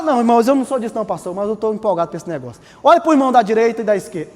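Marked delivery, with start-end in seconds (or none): 0.0-2.6 fast mock congregant. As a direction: rattle it off as a shy member.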